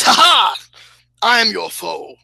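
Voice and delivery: hammed-up British foe from the eighteen hundreds; old-time British voice. Game master voicing a lizard warrior's challenge, old-time British. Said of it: "talk like a British person from the eighteen hundreds".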